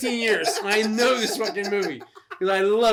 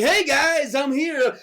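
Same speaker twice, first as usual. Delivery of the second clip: higher, louder mock greeting; acted call-out; 8 semitones higher, 5 dB louder, slower than usual. Voicing a guy greeting others amid gremlins, hammed-up call. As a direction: call out like a hammed-up movie character.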